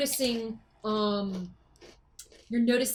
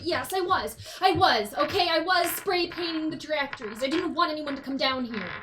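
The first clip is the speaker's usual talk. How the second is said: flustered confession; 4 semitones higher than usual. Acted. NPC confesses under pressure.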